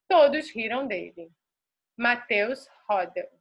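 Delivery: clear, rhythmic reading for the class to copy; model reading aloud. Shown as a demonstration. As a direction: read it like a fluency model, every phrase shaped. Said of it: "Prestem atenção na entonação". (leitura modelo expressiva, com entonação e ritmo marcados)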